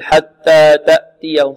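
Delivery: imitating students' puffless T in حتى تأتيهم; breathless T mistake. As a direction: show the error, each T hard with no breath. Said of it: "بعض الطلاب يقول".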